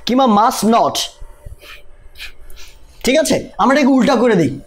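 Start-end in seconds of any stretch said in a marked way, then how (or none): 0.0-1.0 very slow, word by word; slow teaching voice. Shown as a demonstration. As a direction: spell it out slowly for learners. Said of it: "এটাকে আমরা কিভাবে বলতে পারি". (খুব ধীরে, শব্দে শব্দে)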